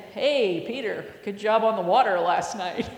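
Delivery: lightly teasing, with a laugh; ribbing. Acted. James to Peter at breakfast, light ribbing. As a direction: gently rib a buddy, amused. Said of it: "ribbing Peter".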